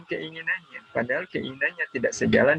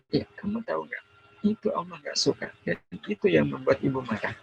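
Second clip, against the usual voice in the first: a mild demo of a scolding mother, mostly softer; mock-stern scolding, held back rather than shouted; angry mother; 3 semitones higher, 3 dB quieter than usual. Shown as a demonstration. Mother scolding her child for skipping prayer, mildly mock angry. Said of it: "pakai ekspresi marah".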